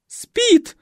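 very high, loud shriek; panicked shriek. Acted. Николетта снова визжит — высокий панический крик. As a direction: screech it again in panic. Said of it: "повторила Николетта".

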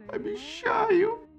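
very high slow sob; sobbing. A narrator's reading. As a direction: promise through a sob. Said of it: "всхлипнула Афина". (всхлипывая)

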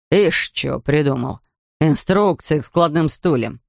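lightly voiced grumpy beach attendant; gruff ticket man.

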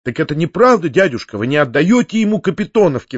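ordinary delivery, nothing marked

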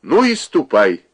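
angry mother shouting; mother's shout. Acted. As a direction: throw the words at her like a shout. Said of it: "крикнула она".

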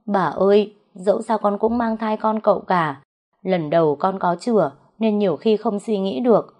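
put-on understated tearful servant girl; tearful pleading. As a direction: beg for mercy with a touch of crying. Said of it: "Nó bị bà đánh thì khóc lóc nói".

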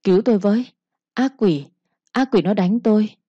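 a touch of a terrified cry for help; lightly voiced madwoman begging to be saved; mild pleading cry. Madwoman cries for help from her sister, mild frightened plea. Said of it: "kêu khóc rất thảm thương".

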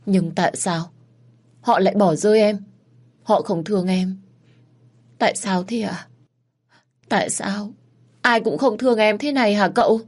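put-on child sobbing against her brother's chest, begging for an answer; crying and whimpering. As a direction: cry out why nobody loves her. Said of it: "vừa khóc vừa mếu máo".

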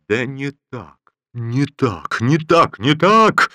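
from slow to a loud high shout; getting heated. Acted. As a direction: build from grumble to fury. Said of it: "горячился корпусный командир".

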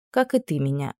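a quiet sigh of a reply; sighing prince. Acted. Prince answers the princess, resigned sigh. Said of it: "вздохнул принц".

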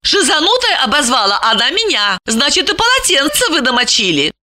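high, reproachful woman's voice; indignant Lipochka. A narrator's reading. Lipochka pieces together his misdeeds, indignant. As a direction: accuse him in a high voice.

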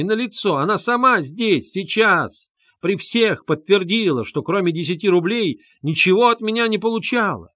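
high and loud, pressing every point; indignant defence. A narrator's reading. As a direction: argue the accusation down. Luzhin angrily defends himself.

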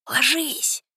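sharp high warning cry; urgent shout. Acted. Boy warns friends to hide.

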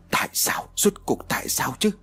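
furious outburst. A narrator's reading. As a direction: rage at the crystal ball. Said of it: "Thầy tức giận cầm quả cầu điên cuồng rồi nói".

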